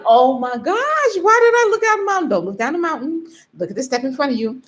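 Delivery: high, mock-wailing panic, then rushed self-coaching; retold tearful panic. Hiker panics after looking down the mountain, mock near-tears wail. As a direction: whine it high, then hurry to steady yourself. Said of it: "I thought I was gonna cry".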